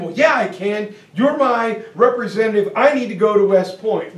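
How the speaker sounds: put-on a stubborn teen demanding a meeting; young Jackson insists to the congressman, loud and eager; insistent youth.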